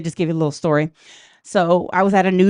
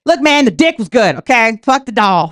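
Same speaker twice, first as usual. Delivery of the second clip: exasperated shout; 2 semitones higher, 6 dB louder than usual. Retold or imitated. Exasperated outburst about the doll.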